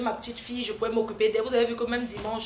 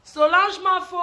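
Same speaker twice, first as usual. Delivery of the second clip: stretched greeting; 6 semitones higher, 6 dB louder, slower than usual. Real, not acted. Greeting viewers on live.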